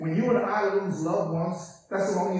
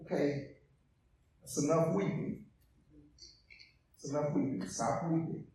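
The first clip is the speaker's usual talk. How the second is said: 1 dismissive hush; 5 semitones lower, 13 dB quieter than usual. Retold or imitated. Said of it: "it's like saying this".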